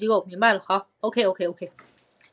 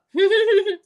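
high giggle; 11 semitones higher, 6 dB louder than usual. Real, not acted. Laughs about eating half.

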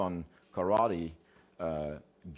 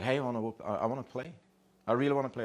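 higher, eager dog begging to play; eager pleading; 5 semitones higher, much faster than usual. Acted. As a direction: plead like an overkeen playmate.

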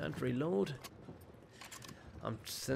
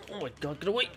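terrified shout; 7 semitones higher, 6 dB louder, faster than usual. Real, not acted. Attacked by enemy.

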